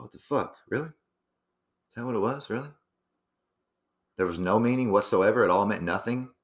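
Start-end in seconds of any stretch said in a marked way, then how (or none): 0.0-2.7 imitating shocked disbelief at the answer; stunned disbelief. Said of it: "I go".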